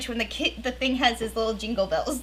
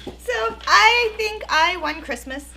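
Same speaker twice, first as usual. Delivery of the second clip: smug; 11 semitones higher, 6 dB louder, slower than usual. Pretend. Proud boast about gifts.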